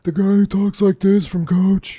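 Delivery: high lisp, s sounds slurred; lispy catcher impression. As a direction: ham up a lisp, pitched high. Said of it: "the dumb lispy catcher".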